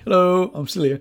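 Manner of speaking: high, bright hello; cheery voiced greeting. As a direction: pop up with a chirpy hello. TV show popping its head out.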